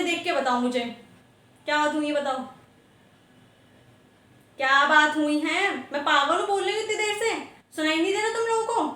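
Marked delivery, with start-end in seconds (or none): 4.6-8.9 exasperated scolding. Acted. Teacher scolds silent students.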